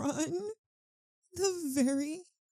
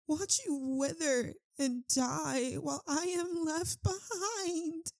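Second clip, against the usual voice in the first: crying; 3 semitones higher than usual. Acted. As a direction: voice breaking into a cry. Vampire lamenting losing lover.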